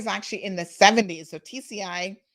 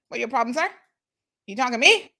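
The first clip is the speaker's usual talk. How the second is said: put-on a light Caymanian accent, louder and playful; mock Caymanian challenge; 4 semitones higher, 6 dB louder, faster than usual. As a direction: tease like a tough Caymanian. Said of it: "that Caymanian accent".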